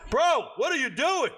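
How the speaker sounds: high, loud, exasperated "bro, what are you doing"; baffled yell at wife. Retold or imitated. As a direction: call out at her, half joking, half annoyed. Yelling at Kim in the dark.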